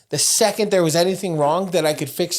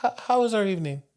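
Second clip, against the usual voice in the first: high sweet therapist voice; sing-song therapist; 6 semitones higher, 4 dB quieter, faster than usual. Retold or imitated. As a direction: coo like a kindly school therapist. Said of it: "She was like".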